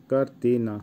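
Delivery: কার্তিনা in separated syllables, kar-ti-na; careful pronunciation. Shown as a demonstration. Teacher repeating the word for painting, carefully pronounced. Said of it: "উচ্চারণ হবে".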